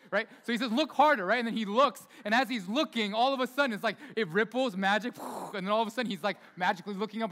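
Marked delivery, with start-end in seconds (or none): 0.7-1.2 higher, louder Rafiki take; lightly voiced Rafiki. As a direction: punch it out as the wise baboon. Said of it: "I practiced that for the week".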